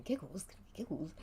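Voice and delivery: hushed, breathy confusion; whispering. Acted. Party members whispering to each other in shock. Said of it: "everyone's whispering".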